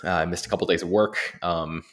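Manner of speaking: hoarse voice after covid; sick voice. Real, not acted. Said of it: "as you can probably hear it in my voice".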